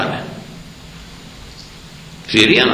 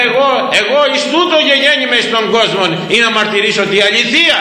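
higher, intoned words of Christ; solemn scripture quote; 9 semitones higher than usual. Retold or imitated. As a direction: chant the verse like a reading. Quotes scripture in old Greek. (υψηλότερη, τελετουργική απόδοση του ρητού)

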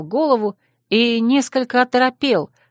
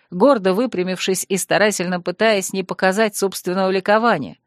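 ordinary delivery, nothing marked

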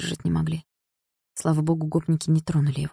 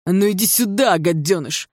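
yelling; 4 semitones higher than usual. Acted. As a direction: call him over with a roar. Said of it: "заорал один из гопников".

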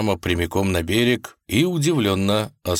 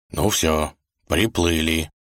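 resigned sigh; 2 semitones lower, slower than usual. Acted. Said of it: "обречённо вздохнул Волк".

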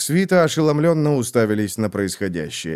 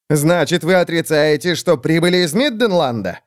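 shouted; 6 semitones higher than usual. Acted. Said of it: "крикнул фон Фольген".

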